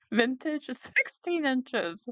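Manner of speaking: slow words through real laughter; can't keep it together, slow; laughing while reading. Real, not acted. Reading the silly listing to viewers, laughing.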